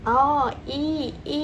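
อี held as a long, drawn-out ee; long vowel. Shown as a demonstration. Teacher showing children the vowel อี, long vowel sound. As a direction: draw out the vowel in อี. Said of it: "เสียงที่เป็นเสียง ยาว".

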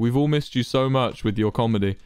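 heavily sarcastic fake praise. Real, not acted. Player mock-welcomes a joking friend back, sarcastic. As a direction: lay on the insincere affection. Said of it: "in the most sarcastic you've ever sounded".

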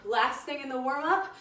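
breathless, winded coach; puffing out the words, out of breath. Real, not acted. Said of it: "I'm out of breath".

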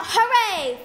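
a loud, high cheer of joy; cheering shout. Acted. Child cheering about pocket money, loud happy shout. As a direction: shout hooray like a kid on pocket money day. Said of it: "Each Saturday I shout".

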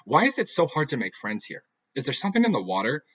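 upset outburst. Acted. Heather ranting to her friend, upset and loud.

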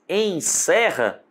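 "Em" closed and "serra" open, said slowly; slow vowel contrast. Shown as a demonstration. Teacher contrasting closed and open vowels, slowly. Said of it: "o som é fechado".

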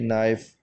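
नाइफ़ said "nife", no k; नाइफ़ with the k left silent. Shown as a demonstration. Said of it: "के को हम नहीं पढ़ेंगे". (नाइफ़ बिना के की आवाज़ के)

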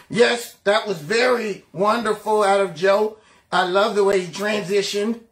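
mock-impressed pundit; pretend praise. Pundits pretending Joe did wonderfully, mock gushing approval. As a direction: put on fake admiration for the speech. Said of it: "try their best to pretend".

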